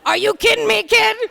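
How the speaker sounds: put-on exasperated, half laughing at the kid; mock disbelief. Parent to son, high incredulous disbelief.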